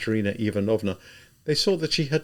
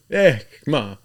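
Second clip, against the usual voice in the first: peasant mutter; 5 semitones higher, 6 dB louder than usual. A narrator's reading. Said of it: "muttering, the way peasants do".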